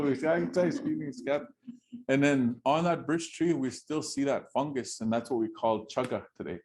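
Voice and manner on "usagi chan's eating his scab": tattle it like a gossiping bird; bird telling everyone. Acted. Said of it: "that bird is going around and telling".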